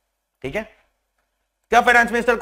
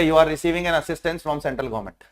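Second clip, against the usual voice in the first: slow dictation; 4 semitones lower, 4 dB quieter, much slower than usual. Shown as a demonstration. Teacher reads notice wording slowly.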